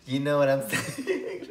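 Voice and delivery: high, loud tipsy gushing. Real, not acted. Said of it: "I'm a little bit tipsy".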